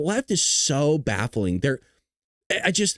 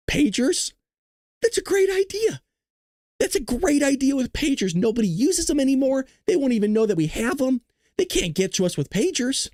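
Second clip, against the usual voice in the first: mock eager planner, higher, with a shouted great idea; mock Hamas planner; 6 semitones higher than usual. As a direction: play the smug plotter pleased with his plan. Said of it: "And they go".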